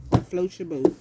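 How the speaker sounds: loud, challenging ask; loud question. Real, not acted. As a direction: punch it out loud, almost a shout. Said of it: "That's how I see it".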